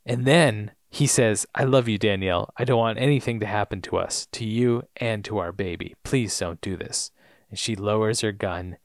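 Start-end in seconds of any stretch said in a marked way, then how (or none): 1.6-7.1 low, soft appeal, acted lightly; tender pleading. Robert begging Danielle to lower her gun, soft pleading. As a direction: plead gently, sinking softer to the end.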